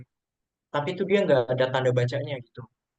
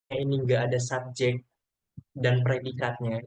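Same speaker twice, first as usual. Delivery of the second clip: emphatic slow; slower than usual. Shown as a demonstration. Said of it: "Intinya kalian ingat aja".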